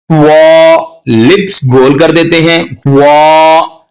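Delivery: वो said with rounded lips, wrong way. Shown as a demonstration. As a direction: show the rounded-lip mistake. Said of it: "ये गलत है". (होंठ गोल करके, गलत तरीका)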